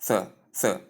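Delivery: "the" as a lone voiceless th; wrong ending sound. Shown as a demonstration. Teacher showing the theta sound to avoid, "the" as voiceless th. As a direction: say "the" as a breath-only "thuh", as in "thin". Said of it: "It is not".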